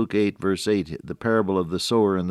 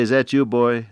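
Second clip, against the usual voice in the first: lightly voiced father's call, a bit raised; a milder, higher imitation of Pop calling; 4 semitones higher, 5 dB louder than usual. Son retells his blind father's question, lightly calling out.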